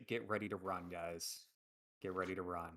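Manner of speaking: low, hushed warning to companions; quietly. Acted. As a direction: keep it down, just for the group. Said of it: "I quietly just say".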